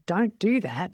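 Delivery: "Don't do that" said as a firm order. Shown as a demonstration. Owner showing staff a firm command. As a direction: order them to quit it. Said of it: "the way I'm saying it is that I want you to".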